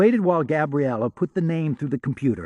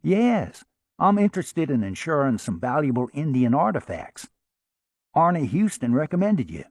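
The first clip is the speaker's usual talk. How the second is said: Oklahoma twang, folksy and friendly; Oklahoma accent. Acted. Sam to the insurance agent, lightly put-on Oklahoma accent. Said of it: "spoke in an Oklahoma accent".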